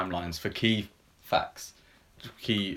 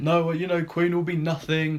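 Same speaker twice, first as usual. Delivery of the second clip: sceptical record boss; 9 semitones higher than usual. Retold or imitated. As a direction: play the doubting label head very on the nose. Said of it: "the head of E M I".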